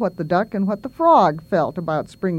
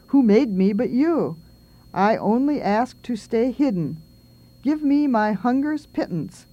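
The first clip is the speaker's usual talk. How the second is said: lightly voiced little mouse's plea; poem reading. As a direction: recite a timid creature's prayer with feeling. Reads the mouse's prayer poem.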